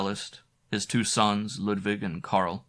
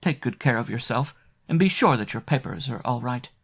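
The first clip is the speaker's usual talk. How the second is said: tender; 4 semitones higher than usual. Acted. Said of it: "she added with a tender glance".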